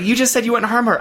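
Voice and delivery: high-pitched, exasperated objection; acted protest. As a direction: protest in mock alarm. Acted protest in retold quarrel.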